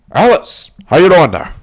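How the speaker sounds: high, loud mock gangster greeting; acting out movie phone greeting. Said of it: "when he was on the phone".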